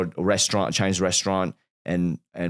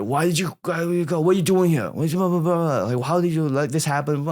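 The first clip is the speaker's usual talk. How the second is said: retold yelling; 9 semitones higher than usual. Mom scolding dad in her dream, high mock yell. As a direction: imitate mom yelling, pitched way up. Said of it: "She was yelling at him".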